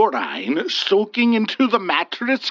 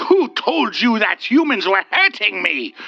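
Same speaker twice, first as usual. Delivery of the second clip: demanding; 5 semitones higher, 4 dB louder than usual. Acted. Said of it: "the wood wraith demanded".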